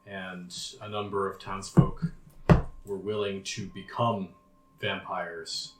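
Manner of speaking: a hint of a subdued survivor; lightly voiced weary townswoman. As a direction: give grim news slowly, in measured pieces. GM voices townswoman telling news.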